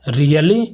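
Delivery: really with the pitch going up at the end; rising tone. Shown as a demonstration. Teacher demonstrating surprise, really rising. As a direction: ask really with a rising lift. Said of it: "the voice rise at the end".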